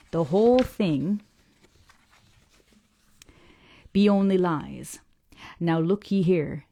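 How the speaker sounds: put-on slow, gruff old sailor grumbling about lies; an old salt scorning the parsons' tales, slowly; old Yorkshire fisherman.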